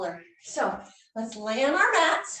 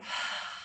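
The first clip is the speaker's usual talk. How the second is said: slow exhale; 9 dB quieter than usual. Shown as a demonstration. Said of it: "deep breath out".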